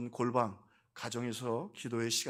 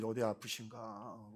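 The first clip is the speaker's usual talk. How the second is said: 나직이 늘여 말하는 걱정 흉내; 걱정하듯 느리고 낮은 소리로 혼잣말처럼; 3 semitones lower, 8 dB quieter, slower than usual. Retold or imitated. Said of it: "한 분 안 계시면 걱정이". (걱정스럽게, 조용히 천천히)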